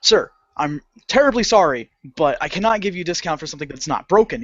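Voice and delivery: measured customer-service apology, quickening; formal politeness. Retold or imitated. Clerk refusing a customer's discount, formally polite. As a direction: apologize with careful, stiff courtesy. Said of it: "I didn't say it like that".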